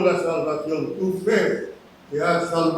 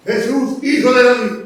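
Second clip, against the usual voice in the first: retold cry; 3 semitones higher than usual. Blind man calling to Jesus, retold cry. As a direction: call out in a restrained imitation of shouting. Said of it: "empezó a gritos".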